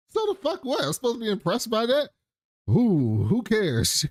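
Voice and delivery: high, fast scoffing mock mom; hammed-up high-pitched mock disdain; scornful mom. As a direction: scoff it away like a diva.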